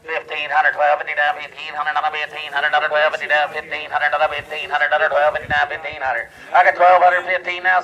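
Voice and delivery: rapid auctioneer bid chant. Real, not acted. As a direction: rattle off the bids like a livestock auctioneer.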